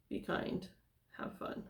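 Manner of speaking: whispered, trailing off. Real, not acted. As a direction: drop to a whisper. Repeating house rules, trailing off.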